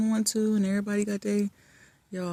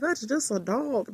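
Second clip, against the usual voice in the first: dismissive; 5 semitones higher, slower than usual. Retold or imitated. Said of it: "some people might be like".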